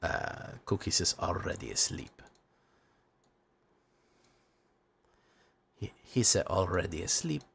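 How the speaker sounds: put-on low, soft, sleepy Latino accent; dad's Latino accent. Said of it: "because I talk like this sometimes".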